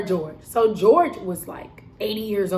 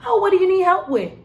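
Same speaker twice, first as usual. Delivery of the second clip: higher, louder fake-helpful old lady; mock old coworker; 9 semitones higher, 5 dB louder than usual. Old coworker butting in on my customer, hammed-up sweet voice. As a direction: butt in sweetly, pitched up. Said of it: "George is like".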